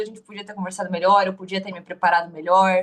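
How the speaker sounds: normal talking voice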